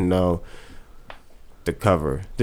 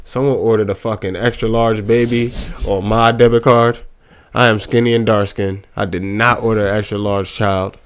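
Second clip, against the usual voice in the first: polite phone call. Pretend. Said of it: "calling the bank right now".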